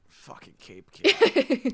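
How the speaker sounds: drawn out slow, high mocking call; mock nickname. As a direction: savor the silly nickname.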